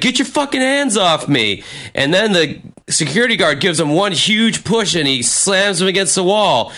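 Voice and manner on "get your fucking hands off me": indignant protest. Retold or imitated. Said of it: "And Mike's like".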